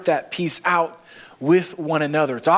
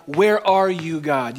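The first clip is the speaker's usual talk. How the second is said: a bold, slightly raised question to God; slower than usual. Retold or imitated. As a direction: ask God where he is, searching. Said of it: "the audacity to say to God".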